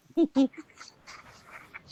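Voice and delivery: high, loud goblin cackle; a gleeful high goblin laugh. Acted. Game master as goblin, a loud high goblin laugh.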